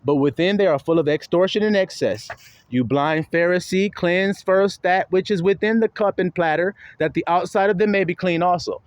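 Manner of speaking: measured, declaiming Bible voice; scripture reading. Acted. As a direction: read the verse like a preacher. Reads scripture aloud.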